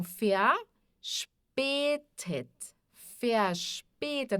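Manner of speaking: verspätet starting with an F sound; V como F. Shown as a demonstration. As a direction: say verspätet with V as F, syllables drawn apart. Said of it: "V, que é som de F". (verspätet com o V soando como F)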